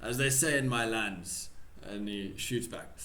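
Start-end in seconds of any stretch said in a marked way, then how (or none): 0.0-1.5 put-on light Russian accent. Pavlov to his drinking guest, light Russian accent. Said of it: "How do you do a fucking Russian accent".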